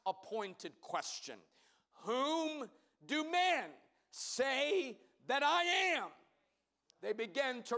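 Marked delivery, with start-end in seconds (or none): 2.0-6.1 slow, higher questioning voice as Jesus; Jesus asking. Acted. Jesus questioning his disciples, slow and lifted. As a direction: ask it slowly and lifted, as Jesus.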